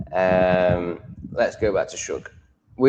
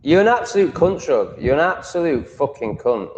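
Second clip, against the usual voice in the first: raised, mock-furious insult; mock rant; 5 semitones higher, 4 dB louder than usual. Mock-angry insults hurled at viewer Shug. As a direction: jokingly tear into him, voice up.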